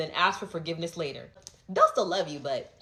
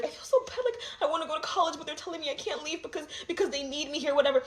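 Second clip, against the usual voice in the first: laughing plea; 8 semitones higher, faster than usual. Retold or imitated. Retelling plea to church leader.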